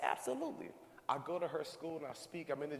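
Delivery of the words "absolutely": eager yes. Retold or imitated. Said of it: "I said".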